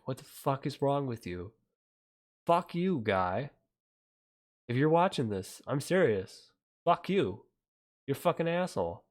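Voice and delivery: loud, furious swearing at a critic; angry rant. Real, not acted. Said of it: "my Elizabeth Warren rant".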